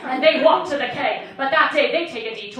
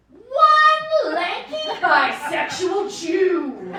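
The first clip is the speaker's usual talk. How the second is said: slow, high announcer voice; dramatic narrator voice; 6 semitones higher, 5 dB louder, much slower than usual. Pretend. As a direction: boom it out like a TV narrator. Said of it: "and it goes".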